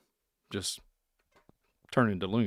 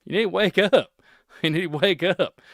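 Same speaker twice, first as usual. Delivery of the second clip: urgent call; 7 semitones higher, 5 dB louder than usual. Real, not acted. Urging viewers to wake up.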